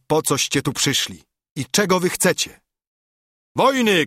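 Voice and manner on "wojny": high, loud crowd shout; a loud one-word war cry. A narrator's reading. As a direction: cry it out as the whole gentry at once. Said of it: "krzyknęli".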